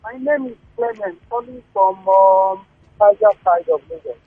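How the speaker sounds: faint, distant caller on the phone; talking too far from the mouthpiece; phone held away. Real, not acted. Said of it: "can you speak into the phone a bit more".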